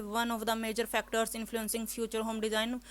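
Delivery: slow word-by-word reading of the line; mock student reading aloud; imitating students. Shown as a demonstration. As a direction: read like a hesitant student. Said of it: "अब student करते हैं ऐसे".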